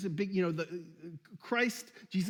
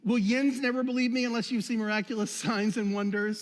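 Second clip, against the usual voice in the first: the Jesus line with a mild Pittsburgh "yins"; Pittsburgh version; 2 semitones higher, 3 dB louder than usual. Pretend. Pastor shouting out to Pittsburghers, a light mock Pittsburgh accent. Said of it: "Or the Pittsburgh version".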